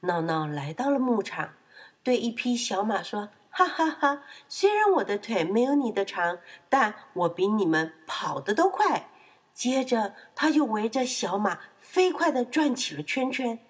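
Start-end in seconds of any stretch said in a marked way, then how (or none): 3.5-9.1 cocky piglet with a lead-in laugh; boasting. Acted. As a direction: brag merrily to a rival. (得意地吹牛)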